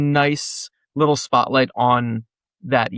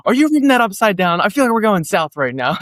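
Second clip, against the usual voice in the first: lost on tour; 5 semitones higher than usual. Retold or imitated. Bandmate questioning the map reader, higher and incredulous. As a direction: needle the guy holding the map. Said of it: "we were sitting there just kind of like".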